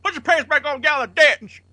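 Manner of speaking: high, loud redneck yell; shouted redneck Merle. Retold or imitated. Cohost yelling his favourite Merle line in a redneck voice. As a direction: holler it like an angry backwoods dad. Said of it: "they're Merle".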